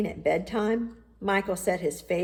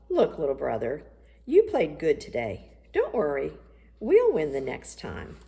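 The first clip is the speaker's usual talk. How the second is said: cheering up. Acted. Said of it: "tried to cheer him up".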